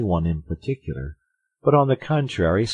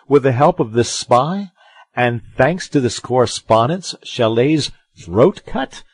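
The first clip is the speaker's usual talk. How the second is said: loud, higher-pitched blustering musketeer; indignant Porthos; 6 semitones higher, 8 dB louder than usual. A narrator's reading. Porthos berates Aramis for dropping the scandal, indignant. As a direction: build an outraged, incredulous tirade.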